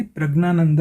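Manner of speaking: प्रज्ञानंद run together with hard g plus n; spoken pronunciation. Shown as a demonstration. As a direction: say प्रज्ञानंद as "prag-naanand". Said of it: "इसका उच्चारण ये करेंगे".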